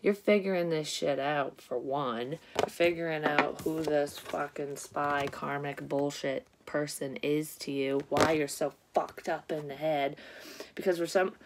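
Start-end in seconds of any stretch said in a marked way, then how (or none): none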